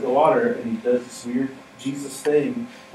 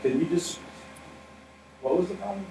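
high, soft, incredulous question; mock-baffled Jesus asking what the problem was; 7 semitones higher, 7 dB quieter than usual. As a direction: ask in playful disbelief.

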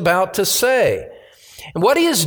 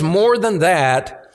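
slow, weighted "More than that"; emphatic; slower than usual. Retold or imitated. Preacher rereading verse eight to the congregation, emphatic. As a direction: hold "More" and fall firmly on "that". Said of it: "this emphatic statement".

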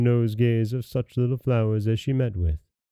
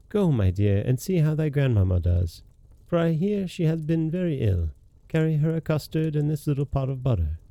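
a hint of a gentle mother, higher and lilting; lightly higher voice for a storybook mother; lightly voiced mother; 5 semitones higher than usual. Mother sending her girl to grandmamma, lightly voiced.

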